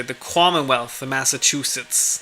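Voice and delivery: put-on light Boston accent on Commonwealth, said like kwahmonwealth; a hint of a Boston movie cop's accent. Streamer quoting a film line in a light Boston accent. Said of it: "like, in the Boston accent".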